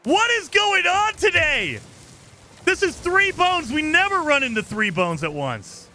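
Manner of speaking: high, drawn-out wail of disbelief; incredulous outburst. Real, not acted. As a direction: cry out in real exasperation, stretching the words. Exasperated at unexpected finds.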